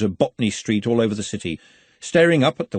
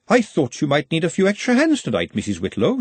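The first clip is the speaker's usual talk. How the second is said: raised pitch, sweet offer; sweetly; 6 semitones higher than usual. A narrator's reading. Glenda offers the housekeeper extra hands, sweetly. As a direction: offer help sweetly, dropping on the name. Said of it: "she said sweetly".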